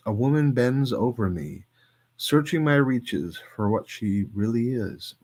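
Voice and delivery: measured poetry recital, some lines slowed; poem reading. Acted. Streamer reading a Plath poem to chat, measured recital.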